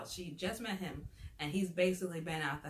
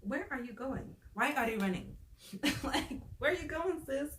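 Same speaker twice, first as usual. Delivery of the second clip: incredulous calling after her; 5 semitones higher than usual. Retold or imitated. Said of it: "And I'm like".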